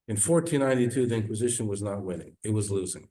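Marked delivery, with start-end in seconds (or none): 0.1-1.0 fourteen ninety-two repeated high, a little less loud; repeated emphatic. Real, not acted. Preacher repeating the date, raised and insistent.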